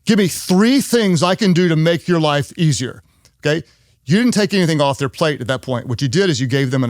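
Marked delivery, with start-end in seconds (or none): 0.0-3.0 pestering, higher-pitched eager chatter; nagging the boss with help offers; mock overeager employee. Eager employee badgering the boss, mock excited.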